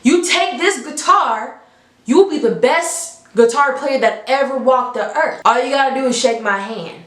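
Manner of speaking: a hint of a smooth devil making an offer. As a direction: devil at the crossroads tempting Robert, lightly acted. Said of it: "He said".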